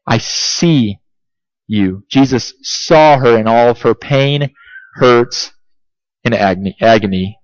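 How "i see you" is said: tender. Acted. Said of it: "That's what Jesus is saying".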